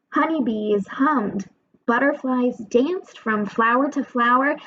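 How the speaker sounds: lively picture-book narration with character voices; storybook reading for kids. A narrator's reading. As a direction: read it aloud as if to a class of young children. Reads picture book to children.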